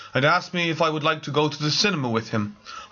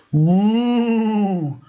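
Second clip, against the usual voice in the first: loud, high, eerie ghost wail; haunt the room with a long woo; ghostly woo; 10 semitones higher, 7 dB louder than usual. Acted. Ghost interrupting the committee meeting, loud eerie wail. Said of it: "said a ghostly voice".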